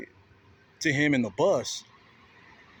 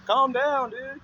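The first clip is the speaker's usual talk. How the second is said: retold calm down; 11 semitones higher, 4 dB louder than usual. Retold telling him to calm.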